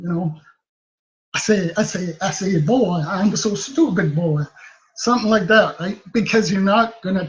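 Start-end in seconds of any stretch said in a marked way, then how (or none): 1.3-4.4 Foghorn Leghorn impression. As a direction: toss off a quick, understated Foghorn Leghorn bit. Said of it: "Foghorn Leghorn".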